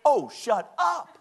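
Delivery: "shut up" stretched out slow and high, each word stressed; all-capitals emphasis. Shown as a demonstration. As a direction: punch "Oh, shut up" word by word, drawn out. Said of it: "emphasize it with all capital words".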